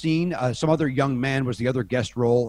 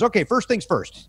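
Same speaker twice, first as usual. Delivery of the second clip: doctorly; 7 semitones higher than usual. Retold or imitated. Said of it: "he goes".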